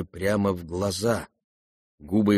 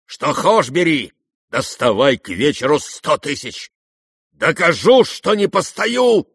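high, loud, elated shouting; rapturous; 6 semitones higher, 6 dB louder, slower than usual. A narrator's reading. Rogozhin promising Ptitsyn's money, ecstatic. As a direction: get carried away with joy. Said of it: "одушевился вдруг до восторга".

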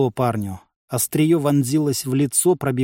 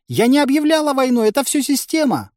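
high-pitched, raised female character voice; protesting shout; 11 semitones higher, 4 dB louder than usual. A narrator's reading. Village head denies declaring war, protesting shout. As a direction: cry out in self-defence. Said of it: "закричала она".

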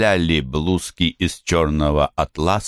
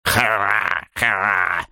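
piercing laugh; 3 semitones higher, much slower than usual. Acted. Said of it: "Пронзительный взрыв смеха".

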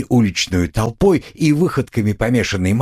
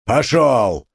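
Пошёл! barked firmly; mild shout; stern order; 4 semitones higher than usual. A narrator's reading. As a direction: move the crowd off. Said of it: "разгонял он теснившихся кругом людей".

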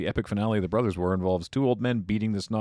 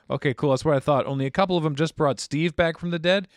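higher excited Bob voice; calling out cheerfully as Bob; Bob sketch voice; 7 semitones higher, 4 dB louder than usual. Acted. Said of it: "small sketch about emergency weld".

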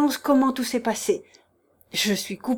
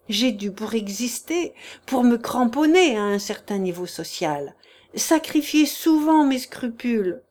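desperate plea. Acted. Chichikov begs the prince for mercy, raised and desperate. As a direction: beg him with theatrical self-pity. Chichikov's tearful pleading confession.

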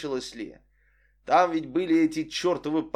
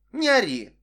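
higher snapped "stop yelling"; sharp rebuke; 9 semitones higher, 6 dB louder than usual. Acted. Vic snapping back at the shouting narrator. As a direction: cut him off sharply.

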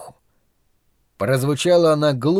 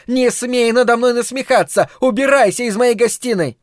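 screaming fury; 9 semitones higher than usual. A narrator's reading. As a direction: scream him out of the room. Mother screaming at husband.

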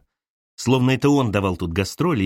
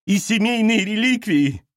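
mother's voice; 10 semitones higher than usual. Acted. Mother lists accusations.

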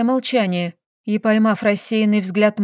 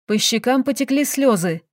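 plain reading voice

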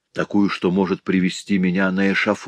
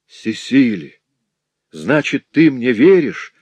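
higher and louder, beside himself; frantic cry; 5 semitones higher, 6 dB louder than usual. A narrator's reading. Jacques crying out to Cecily, higher louder. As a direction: shout it out of control. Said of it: "вскричал он, не помня себя".

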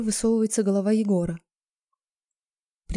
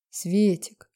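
affectionate. Acted. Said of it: "начал он ласково".

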